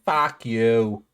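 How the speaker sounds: put-on amateur Aussie tune; Australian intonation. Shown as a demonstration. Showing friends the intonation, attempted Australian accent. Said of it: "that's the intonation".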